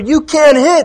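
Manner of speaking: high, loud, jeering heckling yell.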